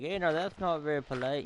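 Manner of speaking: imitating a Canadian. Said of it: "some poor Canadian guy's gonna be like".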